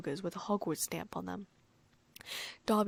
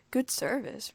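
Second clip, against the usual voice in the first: impressed; 4 semitones higher, slower than usual. Acted. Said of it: "Ron said in an impressed voice".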